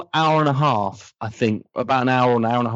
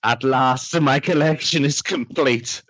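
slow, grand villainess declaration, lightly voiced; imitating Kate O'Mara; slower than usual. Retelling her best scene, slow grand villain read. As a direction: relish the triumph slowly. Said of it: "She does it really amazingly".

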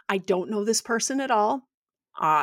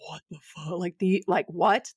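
intimidated. Retold or imitated. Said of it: "intimidated and afraid".

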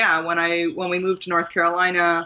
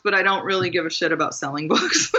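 laughing; faster than usual. Real, not acted. Confessing with a laugh.

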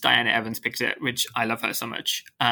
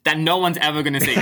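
laughing; 4 semitones higher, 4 dB louder than usual. Real, not acted. Joking about unread books.

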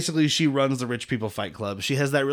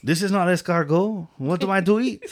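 mock snooty voice; 6 semitones higher, 3 dB louder than usual. Mock posh Leon.

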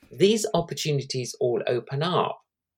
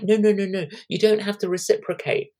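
higher-pitched retold protest; insistent polite refusal; 6 semitones higher than usual. Guest turning down a return lunch invitation, insistent. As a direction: wave the offer away, voice lifted.

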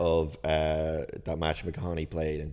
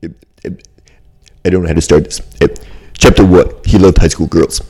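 louder, hesitant Woody Allen voiceover; nervous stammer into a narration; Woody Allen impression; 19 dB louder than usual. Cohost auditions as Woody Allen for host, hesitant Woody voice. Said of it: "my Woody Allen impression".

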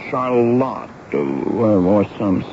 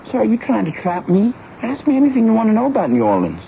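indignant protest; 9 semitones higher than usual. Acted. Boy protests being tested.

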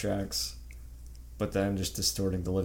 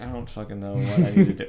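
frustrated Doomguy; 3 semitones higher, 8 dB louder than usual. Retold or imitated. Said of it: "he's like".

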